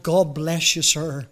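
put-on light Cockney accent, cheerful drummer; a hint of a Cockney drummer. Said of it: "In his Cockney accent".

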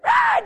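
loud high imitated baby wail; sudden shrieked "Ah" mimicking an infant; baby's cry. Voices the baby crying out.

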